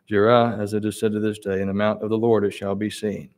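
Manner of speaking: measured, steady Bible reading voice; scripture reading. Acted. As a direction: read the passage with reverence. Reads scripture passage aloud.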